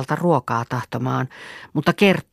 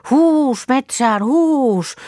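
high, louder cattle-driving cry; herding call; 9 semitones higher, 4 dB louder, much slower than usual. Acted. Girl driving the cows off to the forest, high herding call. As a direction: call out high to move the herd.

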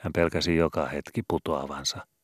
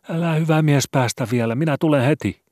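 much higher, loud begging cry; panicked pleading; 11 semitones higher, 9 dB louder than usual. A narrator's reading. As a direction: beg him to wait, terrified. Cantor begs not to leave.

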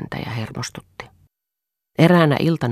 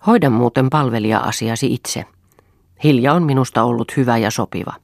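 louder, mock-angry retort; feigned heat; 5 dB louder than usual. Husband leaving the table, feigning anger. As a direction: put on a show of being cross. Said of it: "teeskennellyn kiivaasti".

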